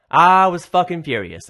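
loud, drawn-out retold fury; furious. Barista telling his boss how mad he was, furious. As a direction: stretch it out with emphatic anger. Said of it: "how mad were you?".

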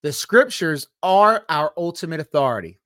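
measured and emphatic delivery; slow, deliberate statement. Real, not acted. Speaker warning people might not understand at first, slow and deliberate. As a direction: lay it out carefully, stressing key words. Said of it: "Let me say this real slowly".

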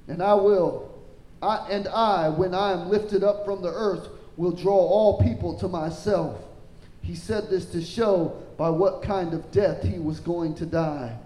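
projected preacher's reading, peaking on the questions; declamatory Bible reading, easing towards the end; scripture reading. Acted. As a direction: read it out to the congregation, then settle. Reads scripture, rising at crowd's question.

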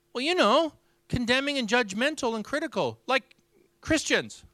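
high imitated tearful answer; retold tearful voice. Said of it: "And she begins weeping".

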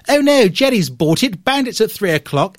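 high, loud mock Second World War British pilot; hammed-up war-film English accent; wartime English. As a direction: call it out like an RAF airman in an old English film. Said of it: "It's like war English".

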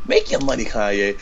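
quoting a radio host's catchphrase. Shown as a demonstration. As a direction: say it like a DJ shouting out a caller. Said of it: "that's what radio hosts say".

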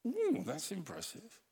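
high, breathy-sounding gush of fake awe; mock gushing admirer. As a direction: gush over them like a flatterer. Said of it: "It's like".

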